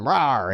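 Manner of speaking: small playful roar; mock transformation roar. Becoming Super Saiyan, a playful roar. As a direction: let out a token "rawr".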